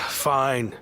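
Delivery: sighing, grudging fine; agreeing to the match against his will; reluctant sigh. Acted. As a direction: give in with a heavy sigh.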